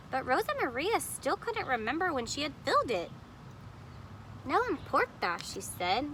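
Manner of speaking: put-on lively read-aloud voice for children; storybook reading. A narrator's reading. Teacher reading a picture book to kids, animated. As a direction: read the story to the class with expression.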